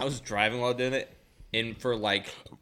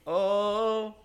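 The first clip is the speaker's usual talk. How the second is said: imitating a voice; 6 semitones higher, much slower than usual. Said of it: "another one where it's like".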